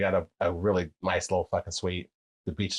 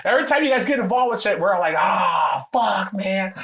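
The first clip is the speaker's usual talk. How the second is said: mock exasperated friend; 10 semitones higher, 5 dB louder than usual. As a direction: imitate a fed-up buddy groaning out loud. Friend mocks Americans getting involved.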